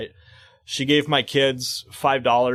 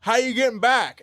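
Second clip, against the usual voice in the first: imitating the deaf lady; 8 semitones higher than usual. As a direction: lightly voice her repeated question. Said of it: "she kept saying".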